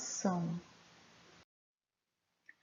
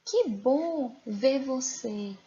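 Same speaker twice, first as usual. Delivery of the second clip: slow glad greeting; 2 semitones higher, slower than usual. Shown as a demonstration. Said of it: "E essa?".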